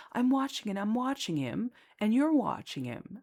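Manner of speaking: mock an angry father's insistent protest; retold yelling. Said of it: "he starts yelling at me".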